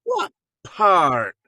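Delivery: high, loud Scottish challenge; mock interrogation in a Scottish accent; suspicious Scottish mother. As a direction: grill him as the wee Scottish mum. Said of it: "a four-foot-tall Scottish lady".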